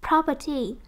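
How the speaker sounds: "Property" led by PROP, then falling; stress on first syllable. Shown as a demonstration. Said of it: "nhấn âm một nha".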